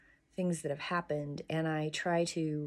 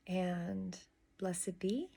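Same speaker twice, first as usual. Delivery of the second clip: whispered blessing; 6 dB quieter, much slower than usual. Real, not acted. Closing blessing of devotional.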